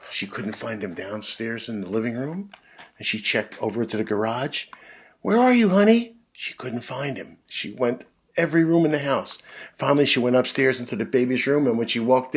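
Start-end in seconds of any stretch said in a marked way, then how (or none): 5.2-6.1 higher, louder call. Acted. Mom calling for dad through the house.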